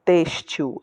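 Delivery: têxtil with a firm first "têx"; stress on accented syllable. Shown as a demonstration. Teacher showing the accent's clue, stress on "têx" in têxtil. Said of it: "essa é a sílaba tônica".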